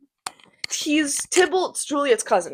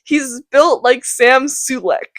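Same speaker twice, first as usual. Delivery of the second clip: swooning Juliet. Acted. Juliet gushing about Romeo, mock swooning. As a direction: gush over the boy like a smitten teen, half-hammed. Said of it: "and then she goes".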